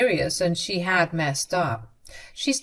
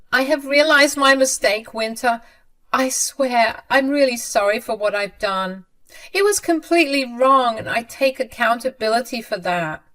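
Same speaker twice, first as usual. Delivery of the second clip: much higher, louder pleading voice; desperate begging mother; 6 semitones higher, 4 dB louder than usual. A narrator's reading. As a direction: beg frantically, pitch pushed way up. Mother apologises to daughter-in-law.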